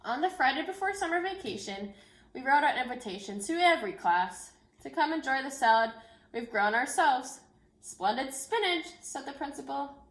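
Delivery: gentle, expressive picture-book read-aloud; reading to children. Acted. Teacher reading a book to her class, storytelling voice. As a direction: tell the story so the children follow every page.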